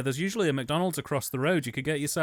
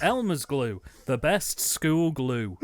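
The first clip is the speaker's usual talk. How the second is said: ad read; 2 semitones lower, slower than usual. Pretend. Mock advert slogan.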